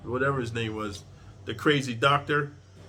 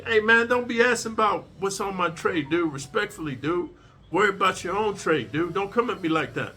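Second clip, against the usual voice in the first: firm respectful pushback; 5 semitones higher than usual. Shown as a demonstration. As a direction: set the line without disrespect. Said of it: "You got to be".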